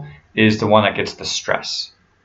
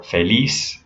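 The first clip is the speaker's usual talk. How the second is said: slow "feliz" as feh-LEES; Spanish "feliz", end stressed; stress on last syllable. Shown as a demonstration. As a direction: land on liz in "feliz". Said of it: "you stress the last syllable".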